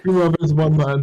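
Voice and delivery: laughing through the words. Real, not acted. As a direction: say it while cracking up. Repeating the phrase while laughing.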